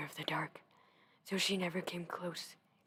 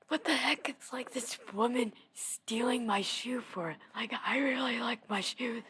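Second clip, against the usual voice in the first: imitating an indignant girl, higher pitch; mock angry; 4 semitones higher, 4 dB louder than usual. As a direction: play up the petty outrage. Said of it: "she got angry at her".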